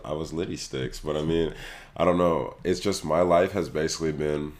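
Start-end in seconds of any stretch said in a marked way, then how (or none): 0.0-1.0 lost voice, hoarse and strained. Real, not acted. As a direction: talk through a hoarse throat. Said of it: "You sound like you lost your voice".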